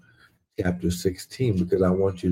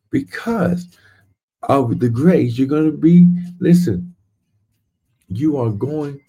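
rising excitement; 4 semitones higher than usual. Real, not acted. Preacher building to excitement.

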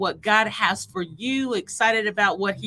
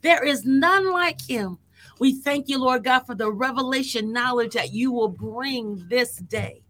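fervent prayer; 3 semitones higher than usual. Acted. Prayer building to fervour.

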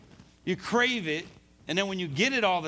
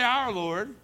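"Our" raised high and pointed; stress on "Our"; 6 semitones higher than usual. Shown as a demonstration. Preacher shows what Saul doesn't say, stress on "Our". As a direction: hit "Our" as the rejected wording. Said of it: "He doesn't say".

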